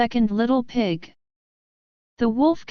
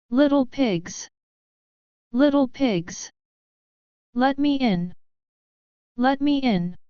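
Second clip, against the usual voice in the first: big bad wolf; 2 semitones higher than usual. Wolf calls at the door.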